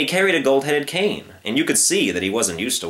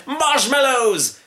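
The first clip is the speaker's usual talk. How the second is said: high, drawn-out shout; triumphant shout; 14 semitones higher, 3 dB louder, much slower than usual. Acted. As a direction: proclaim it grandly. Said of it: "shouted the circus man".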